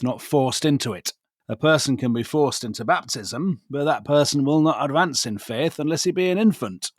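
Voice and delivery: put-on reading a letter in Yorkshire accent; broad Yorkshire reading voice. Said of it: "read that in a Yorkshire accent".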